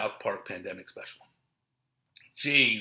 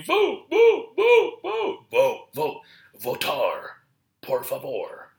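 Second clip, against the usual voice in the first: shrill, much higher and louder mocking chant of vote; mock nagging; 6 semitones higher, 9 dB louder, much slower than usual. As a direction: parody the pushy get-out-the-vote crowd.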